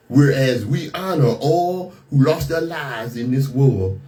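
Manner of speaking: put-on Southern accent. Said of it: "you hear my pronounced broken English Southern accent".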